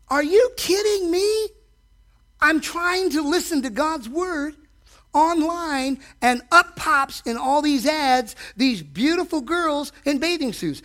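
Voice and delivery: exasperated disbelief. Retold or imitated. Preacher retells his outburst at the ads, incredulous. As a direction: throw up your hands in disbelief. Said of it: "I said".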